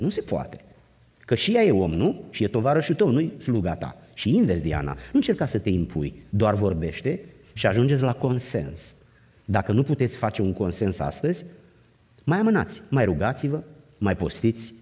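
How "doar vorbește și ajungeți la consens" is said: usual speaking voice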